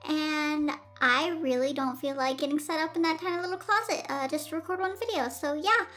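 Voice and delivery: echoey room sound; big hall echo. Real, not acted. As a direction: voice echoing in an empty room. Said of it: "Sorry if the audio sounds really echoey".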